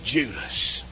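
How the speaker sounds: full-force preaching. Acted. Preacher thundering to the congregation, full force. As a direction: preach it out to the whole church.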